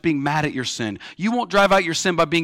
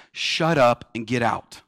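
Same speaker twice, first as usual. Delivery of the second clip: calm command; 5 semitones lower, slower than usual. Retold or imitated. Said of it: "Jesus looks to the unclean spirit and he says".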